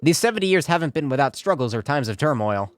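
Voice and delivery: reading a mayor's festival address; stately speech read aloud; formal speech read. Acted. Streamer voicing the mayor's address to the city.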